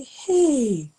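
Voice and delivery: high, loud startled hey; retold gasp of disbelief; surprised exclamation. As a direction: jolt back in shock. Shocked reaction on phone call.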